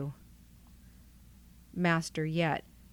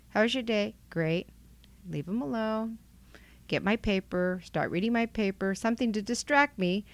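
higher, sing-song run-through of a routine; acted-out routine; 5 semitones higher than usual. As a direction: lightly act out talking yourself through the steps. Self-talk, acting out homecoming routine.

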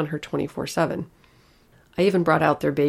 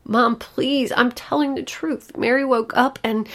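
much higher, louder, pleading; desperate child's plea; 8 semitones higher, 6 dB louder, slower than usual. Acted. Little girl desperately pleading with her mother, high and loud. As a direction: beg as if nobody will listen.

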